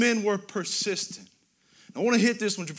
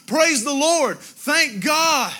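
raised, higher preacher's exclamation; louder, lifted cry of praise; said aloud in praise; 4 semitones higher, 4 dB louder, slower than usual. Shown as a demonstration. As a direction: proclaim it for all around to hear. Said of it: "Do we say aloud sometimes".

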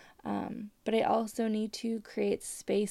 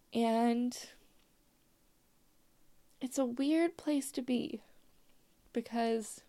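holding back tears; 2 semitones higher than usual. Real, not acted. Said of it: "I have such bad vocal fry right now".

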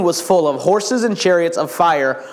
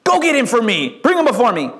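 terrible king; 6 semitones higher than usual. Acted. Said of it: "he'd be a terrible king".

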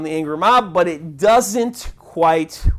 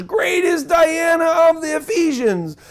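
higher, slow chanted yell of an angry mob; mob shout; 8 semitones higher than usual. Retold or imitated. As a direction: bellow it like a frenzied crowd. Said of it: "these guys here, two hours".

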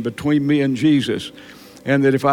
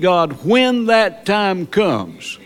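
fervent preaching; 2 semitones higher than usual. Real, not acted. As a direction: hammer the point to the pews. Preaching at full force.

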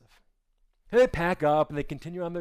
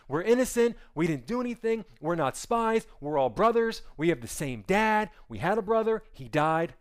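pleading brothers; 3 semitones higher than usual. Acted. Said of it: "start pleading their case".

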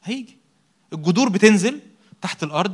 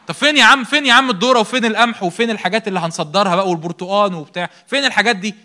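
an impatient visitor demanding the crop, louder; 2 semitones higher, 4 dB louder than usual. Acted. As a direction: press the farmer for the harvest.

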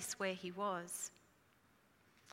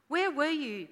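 sharp, louder, higher challenge to Jesus; demanding; 6 semitones higher, 6 dB louder than usual. Retold or imitated. Martha confronting Jesus at her brother's funeral, demanding. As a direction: accuse him of arriving too late. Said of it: "Martha demanded".

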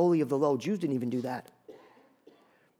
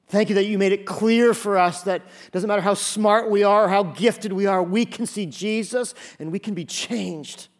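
fervent prayer; 3 semitones higher than usual. Acted. Leads a thanksgiving prayer.

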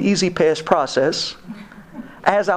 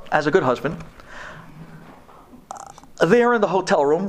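ordinary talk, nothing marked

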